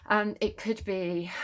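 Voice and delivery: slightly out of breath, slow. Real, not acted. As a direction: speak short of breath. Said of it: "oh, I'm out of breath".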